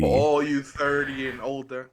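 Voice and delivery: loud hyped radio announcer; radio host voice. Pretend. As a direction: call out to the listeners. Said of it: "Do I sound like a radio host?".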